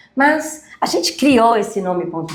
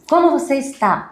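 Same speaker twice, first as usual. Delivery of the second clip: pergunta com entonação bem marcada, mais aguda; mock question tune; 7 semitones higher than usual. Shown as a demonstration. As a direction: exagera a subida da pergunta. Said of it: "Eu não falo assim". (pergunta cantada e aguda)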